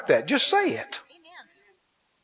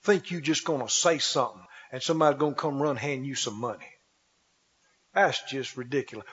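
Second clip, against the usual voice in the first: mocking doubter; 8 semitones lower, 7 dB quieter than usual. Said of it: "That's why people say".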